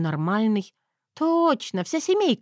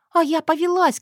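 ordinary delivery

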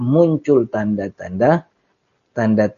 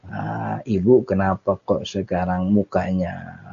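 admonishing husband; 2 semitones lower, 4 dB quieter than usual. Acted. Husband asks wife why she has changed, mild admonishing. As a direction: gently question her as a concerned husband. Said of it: "apa ngomongnya?".

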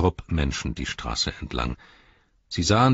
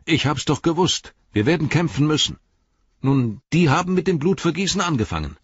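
put-on bright, raised young hobbit voice; Mary, eager and fired up; excited Mary; 9 semitones higher, 5 dB louder than usual. A narrator's reading. (aufgeregter Mary)

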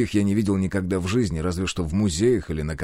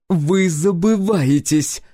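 loud, high, slow royal bark; 10 semitones higher, 5 dB louder, much slower than usual. A narrator's reading. Empress finally loses patience and barks at hero. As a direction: snap him back into place. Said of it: "рявкнула императрица".

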